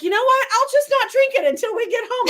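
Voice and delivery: high, laughing mock quote. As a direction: giggle through the quote. Quoting husband while laughing.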